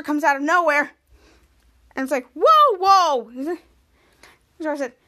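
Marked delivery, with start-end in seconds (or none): 2.3-3.3 officer's whoa. Acted. Police officer bursts in.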